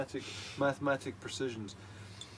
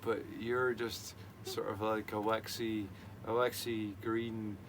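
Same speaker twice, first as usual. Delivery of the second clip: hypnotic motivational voice; 3 semitones lower than usual. Pretend. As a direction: coax them like a self-help tape. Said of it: "Rodney's motivational speaking on Rodney's hypnosis".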